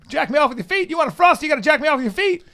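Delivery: Southern redneck. Pretend. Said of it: "Be a redneck again".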